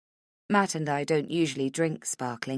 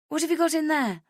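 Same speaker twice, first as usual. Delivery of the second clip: put-on high, sympathetic girlfriend voice; comforting friend; 12 semitones higher, faster than usual. Friend in the toilets consoling crying Rach, high and sympathetic. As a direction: soothe her like a worried best friend. Vivian asks.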